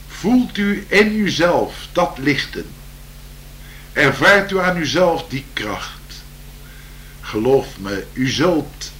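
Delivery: slow, lilting poem reading; poem recital. Acted. Improvised poem recital continues.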